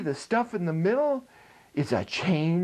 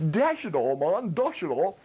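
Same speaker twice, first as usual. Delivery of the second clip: English exclamation. Retold or imitated. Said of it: "when Englishmen said".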